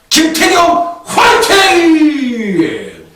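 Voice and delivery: loud, high, drawn-out shout; rallying cheer. Real, not acted. Tipster cheering on his recommended jockey, rallying shout. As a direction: holler a long fighting cheer, last word stretched out.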